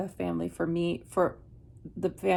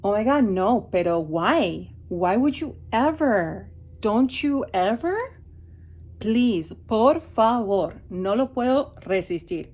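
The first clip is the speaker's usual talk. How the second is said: put-on Miami Valley girl accent; 3 semitones higher, 4 dB louder than usual. Imitating Miami friends' chatter in a Miami Valley girl accent. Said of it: "a Valley girlish kind of like".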